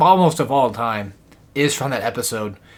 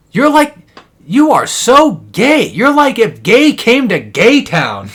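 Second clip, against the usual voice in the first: high, drawn-out cartoon taunt; loud mocking; 10 semitones higher, 8 dB louder, slower than usual. Cartoon character ribbing another, loud and mocking. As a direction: swoop up and down through a slow, loud jeer.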